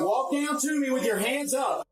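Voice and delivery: shouting. Real, not acted. Officer ordering suspect down.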